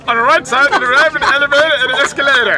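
lightly voiced pilot announcement; airline pilot announcement. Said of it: "Einmal eine Pilotendurchsage". (leichte Pilotendurchsage)

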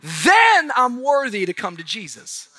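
high, loud impassioned preaching; voicing the congregation's excuses, preached loud; preaching at full force. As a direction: build it up from the pulpit.

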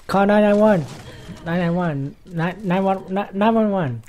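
high, loud mock plea for help; mock emergency cry. Choking gamer begging viewers to call for help, mock-panicked shout. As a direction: cry out in hammed-up alarm.

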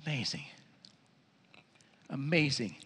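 very soft, low amazement; hushed awe. Real, not acted. Preacher marvels at the blind man seeing, hushed. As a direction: let the wonder sink in quietly. Awed aside after the miracle.

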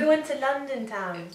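high, put-on English accent; English accent attempt. Shown as a demonstration. Having a go at English, high mock English accent. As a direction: try a silly English accent. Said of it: "I think I can do English".

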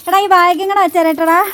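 high, loud, playful scolding of a pet; teasing pet talk. Acted. Owner teasing her dog hiding between the barrels, high loud pet talk. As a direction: tease the dog like a naughty little boy, up high and loud.

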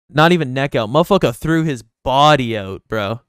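loud, excited yelling. Real, not acted. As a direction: yell it with excitement. Hyped praise of friend.

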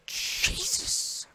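high shriek of fright; startled scream. Real, not acted. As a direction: yelp as if jumped at. Jump scare in horror game.

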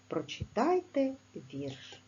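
ordinary talk

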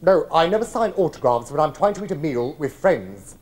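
ordinary talk

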